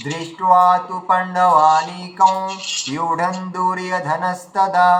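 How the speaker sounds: slow Sanskrit shloka chant; teacher chanting the shloka; verse recitation. Shown as a demonstration. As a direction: recite the verse slowly and evenly. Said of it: "যেমন ওটা হবে কেমন".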